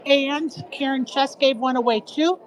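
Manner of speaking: out of breath from running; panting a little between words. Real, not acted. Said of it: "I was running, I'm short of breath".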